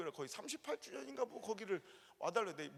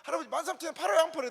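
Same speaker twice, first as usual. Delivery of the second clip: louder, higher insistence; pressing the old man; 7 semitones higher, 9 dB louder, faster than usual. Retold or imitated. Preacher voicing the pastor demanding an answer, loud. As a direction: demand yes or no. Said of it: "했더니".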